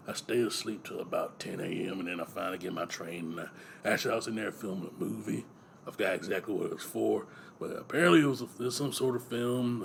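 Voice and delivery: low, gruff celebrity voice; Gary Busey. Acted. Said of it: "I didn't realize Gary Busey was so homophobic".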